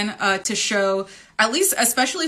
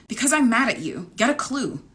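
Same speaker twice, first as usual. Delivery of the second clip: angry retort; 6 semitones higher than usual. Acted. Anija snaps at Tuck.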